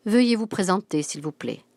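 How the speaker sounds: ferme et sonore, puis retombe; voix forte. Acted. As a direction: une vieille dame qui exige, fort. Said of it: "dit-elle d'une voix forte". (d'une voix forte et autoritaire)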